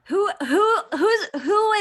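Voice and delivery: high, loud gleeful whoops; excited squeal. Real, not acted. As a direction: squeal with glee at the news. Host squeals while reading chat.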